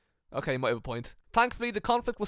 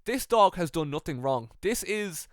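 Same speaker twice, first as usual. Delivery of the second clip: calming speech; 3 semitones lower than usual. Retold or imitated. Finlay defending the dog to the locker room, calming. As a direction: lower it gently, as if soothing a room. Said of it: "and he calmed everyone down".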